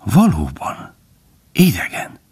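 high, drawn-out note of surprise; wondering and curious. A narrator's reading. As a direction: marvel with keen curiosity. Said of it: "csodálkozva és igen kíváncsian".

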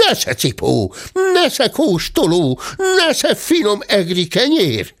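high, taunting market woman's cry; high-pitched taunting shouts; shouting attacker. A narrator's reading. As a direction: cry each offer out like a blow. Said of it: "kiáltott".

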